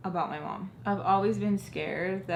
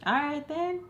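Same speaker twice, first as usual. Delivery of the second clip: big smile; 8 semitones higher than usual. Retold or imitated. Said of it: "Like, a big ass smile".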